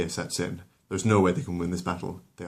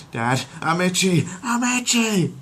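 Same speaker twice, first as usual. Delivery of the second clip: high, slow whiny complaint; a dim teen whining to dad; Chris whining; 12 semitones higher, 5 dB louder, slower than usual. Acted. Chris complaining to his dad, high and whiny.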